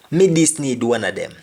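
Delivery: patois, Me stressed; Jamaican patois. Shown as a demonstration. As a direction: repeat Me this need in patois. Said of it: "I just need one of them".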